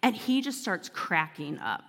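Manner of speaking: ordinary talk, nothing marked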